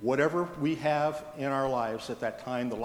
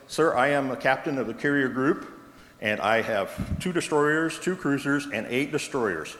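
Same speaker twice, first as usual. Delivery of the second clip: perturbed captain. Retold or imitated. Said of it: "now the captain's getting perturbed".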